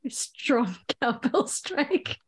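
slow, drawn-out playful narration; mock audio description. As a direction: narrate it like a dramatic audio describer, savouring the pauses. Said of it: "she's getting into the audio description of it".

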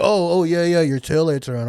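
startled high mock stranger voice; nervous guy. Caught stranger, nervous excuse.

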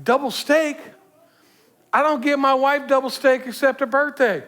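lightly acted, incredulous protest; retold indignation. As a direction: play the pastor's mild outrage at the order. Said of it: "the pastor's getting upset".

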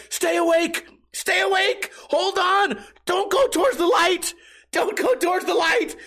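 hammed-up high frantic yelling; mock desperate shouts. Friend holding the egged man shouts in hammed-up panic.

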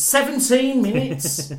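drawn-out, slow disbelief; amazed echo. Real, not acted. Co-host echoing the surprising screen time, slow amazed repeat. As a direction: stretch it out slowly in amazement. Echoes a surprising fact back.

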